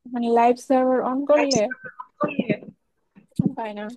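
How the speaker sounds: echoing room sound. Real, not acted. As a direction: voice bouncing back with echo. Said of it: "আপনার ইকো হচ্ছে".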